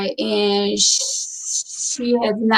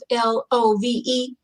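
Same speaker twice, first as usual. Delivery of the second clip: spelled out; 4 dB quieter than usual. Shown as a demonstration. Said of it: "that word called love".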